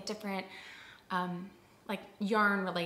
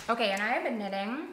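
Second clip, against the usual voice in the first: talking through a mouthful of food; words muffled around chewing; 3 dB louder than usual. Real, not acted. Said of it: "Sorry, still chewing".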